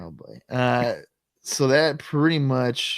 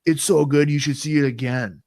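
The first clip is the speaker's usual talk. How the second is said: mock ad voice; 3 semitones higher, 5 dB louder than usual. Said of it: "part of it was like".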